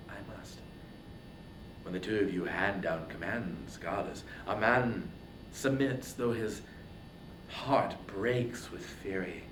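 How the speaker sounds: low and quiet, biting back fury; a hero yielding through clenched anger; grudging submission. Acted. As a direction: Achilles submitting to Athena, subdued and low. Achilles yields to goddess.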